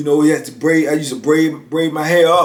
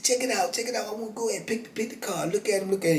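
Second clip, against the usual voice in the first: card hustler patter; 5 semitones higher, 12 dB quieter, faster than usual. Retold or imitated.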